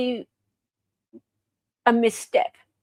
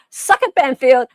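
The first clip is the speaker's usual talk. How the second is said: loud taunt; 6 dB louder than usual. Real, not acted. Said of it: "I'm gonna say it".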